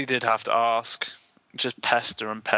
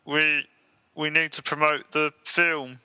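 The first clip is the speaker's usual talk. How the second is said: a half-hearted puppet impression; hopeless try at a cartoon frog; Kermit the Frog; slower than usual. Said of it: "I'll do my impression of him".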